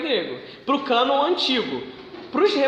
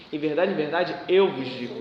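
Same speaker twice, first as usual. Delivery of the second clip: low solemn words; 6 semitones lower than usual. Shown as a demonstration. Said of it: "é "assim eu vos digo".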